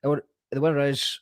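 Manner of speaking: big reveal lead-in; announcer build-up. Real, not acted. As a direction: announce it like a raffle host, building suspense. Announcing the raffle winner.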